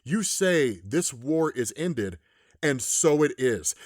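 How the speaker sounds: slow, solemn pronouncement; lightly voiced monster, slow and deliberate; Infernal Hulk. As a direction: declare it slowly, with weight. Acting Infernal Hulk's pronouncement.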